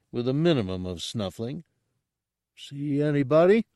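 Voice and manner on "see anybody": a hint of slow, careful Gamorrean grunt; each word pushed out with effort; slow careful creature speech. Gartog asks the humans if they saw anyone, slow and careful. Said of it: "spoke as slowly and carefully as he could".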